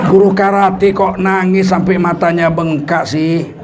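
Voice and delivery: slow, amused disbelief; puzzled principal. Retold or imitated. Principal puzzled by the crying karate teacher, slow amused disbelief. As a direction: drawl the teacher's name in wonder. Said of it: "Kepala sekolah heran".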